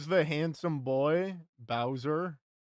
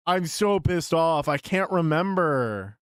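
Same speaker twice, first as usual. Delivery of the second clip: a higher, frustrated complaint; pissed off; 3 semitones higher than usual. Real, not acted. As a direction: complain in real exasperation at your memory.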